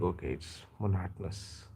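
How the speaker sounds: monotonous with stress on the second syllable; American monotonous. Shown as a demonstration. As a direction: say mo-NO-to-nous, American style. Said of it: "then I got to know".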